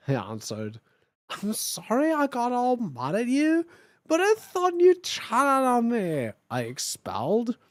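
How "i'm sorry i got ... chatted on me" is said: higher, slow, mopey apology; lightly voiced sad goth boy; Draco apologizing. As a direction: mope through the apology.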